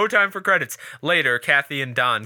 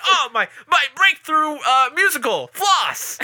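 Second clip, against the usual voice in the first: pretentious artist; 13 semitones higher, 5 dB louder than usual. Retold or imitated. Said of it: "he's like".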